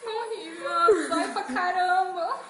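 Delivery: laughing through tears. Real, not acted.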